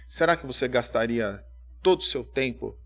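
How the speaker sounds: ordinary talk, nothing marked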